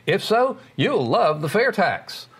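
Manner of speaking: upbeat announcer read; radio ad voice. Shown as a demonstration. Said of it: "Bob, do another one".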